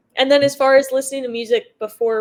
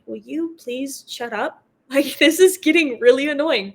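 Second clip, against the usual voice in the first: annoyed; 3 semitones higher, 4 dB louder than usual. Retold or imitated. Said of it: "I can tell they're kinda like".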